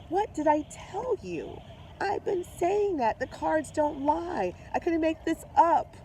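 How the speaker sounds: high and elated, I told you so; excited told-you-so. Real, not acted. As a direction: crow that the cards called it. Gloating that her prediction came true.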